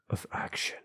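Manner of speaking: hushed, whispered phrase ending; suspenseful whisper. A narrator's reading. Narrator as the listener bursts into motion, suspenseful whisper. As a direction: drop to a soft whisper.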